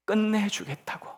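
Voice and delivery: ordinary delivery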